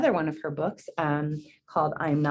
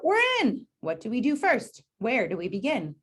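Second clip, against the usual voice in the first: a high, eager cry of joy that settles down; excited yell; 6 semitones higher than usual. Acted. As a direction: cheer like kids let in on the game. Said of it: "yelled out".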